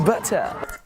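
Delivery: mimicked British accent. Man echoing the British woman's word, mock British accent. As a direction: playfully copy a British "Butter". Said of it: "how do you say it again".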